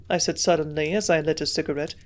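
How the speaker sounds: ordinary delivery, nothing marked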